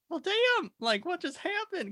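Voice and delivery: high, stunned mock gasp of disbelief; shocked coworker. Coworker voiced in a story, stunned high pitch. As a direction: play the coworker staring over, stunned.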